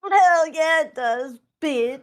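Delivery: loud growly "hell yeah, bitch"; wolf voice. Acted. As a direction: bark it out as the dire wolf. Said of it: "is that your wolf's voice?".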